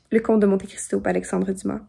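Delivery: French-Canadian speaker's clear international French; international French accent. Shown as a demonstration. Just saying a book title in a video, international French accent. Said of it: "my French is very international French".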